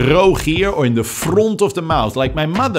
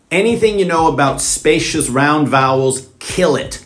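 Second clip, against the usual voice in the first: flat, clipped-vowel Dutch English; Dutch accent. Shown as a demonstration. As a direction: say it like a Dutch speaker, vowels flattened. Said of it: "Flatten the vowels".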